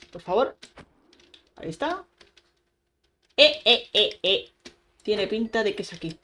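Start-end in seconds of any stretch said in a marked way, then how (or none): 3.4-4.5 calling out. Real, not acted. Calling out at the mobs.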